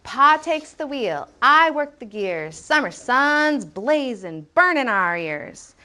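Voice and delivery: slow, measured beat with clipped "blazin', burnin'" endings; rhythmic poem reading. Shown as a demonstration. Teacher showing the book's rhythm, slow chanting read. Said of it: "the way that we listen to this book".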